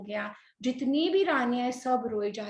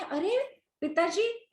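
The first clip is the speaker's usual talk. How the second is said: higher, drawn-out remonstrance; gently protest, stretching the words upward; mild protest; 7 semitones higher, slower than usual. Acted. Ram objecting to his father's plea to jail him, protesting.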